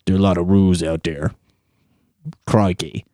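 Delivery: low-key mock Australian accent. Shown as a demonstration. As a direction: do a put-on Australian accent, unexcited. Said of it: "that's my Australian accent".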